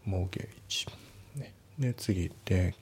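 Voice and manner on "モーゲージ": "モーゲージ" with no t sound, "mor-gij"; "モーゲージ" pronounced without any t; silent T. Shown as a demonstration. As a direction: say "モーゲージ" leaving the t of mortgage silent. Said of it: "Tを発音しないですよね".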